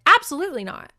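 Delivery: loud, high absolutely not, hit hard; firm refusal. Retold or imitated. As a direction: slam the door on the idea. She refuses to go home.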